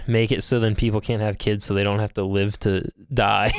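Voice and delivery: shouted villain declaration; booming anime villain voice; Zeke impression. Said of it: "you're sounding more like Zeke".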